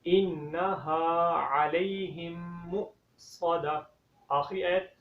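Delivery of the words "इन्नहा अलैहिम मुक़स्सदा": slow, careful tajweed recitation; correct recitation. Shown as a demonstration. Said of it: "दोबारा से पढ़ें सही तरीके से". (सही तरीके से धीमी तिलावत)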